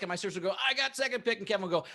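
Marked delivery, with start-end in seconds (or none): 0.7-1.4 imitated sibling excitement, pitched higher; excited kid. Sister to siblings choosing Star Wars guys, excited. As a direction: eagerly claim your turn like a child. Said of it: "just as excited as we were".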